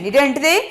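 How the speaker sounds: tag with a rising end on they; question tag rise. Shown as a demonstration. Teacher shows students how to say the tag, rising end. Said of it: "Like that we have to say".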